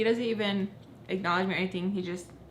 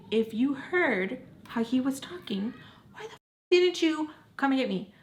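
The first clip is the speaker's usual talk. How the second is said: angry accusation; 5 semitones higher than usual. Retold or imitated. Angry at friend for not helping.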